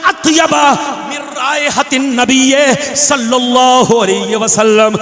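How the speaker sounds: measured, chanted Arabic hadith recital; Arabic recitation. Acted. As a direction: intone the hadith like a preacher.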